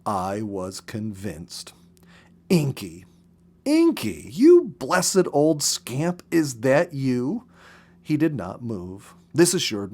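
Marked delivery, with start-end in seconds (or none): 2.5-7.4 put-on slow, fond call to an old pet; a hushed then rising call of delight; tender calling. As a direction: coax him gently, drawing it out. Calling to the porcupine.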